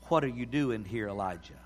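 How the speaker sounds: low, soft, hushed question; gentle whisper. A narrator's reading. God speaking softly to Elijah on the mountain, in a gentle hush. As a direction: say it like a still small voice. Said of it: "a gentle whisper".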